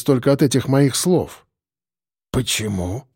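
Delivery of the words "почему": a low, hoarse, quieter croak; a hoarse, exhausted prisoner asking why. Acted. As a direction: rasp the word out, worn down. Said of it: "прохрипел он".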